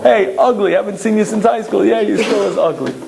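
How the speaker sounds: a hint of joshing guy banter; guy talk. Old pals ribbing each other, lightly voiced banter. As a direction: toss off teasing pals' banter. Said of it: "That's just the way guys talk".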